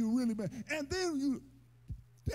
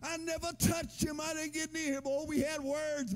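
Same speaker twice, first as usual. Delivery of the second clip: higher-pitched indignant denial; protesting innocence; 4 semitones higher than usual. Retold or imitated. Man denying an assault charge to the police, indignant and pitched up. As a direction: protest like you're wrongly accused. Accused neighbor denies it.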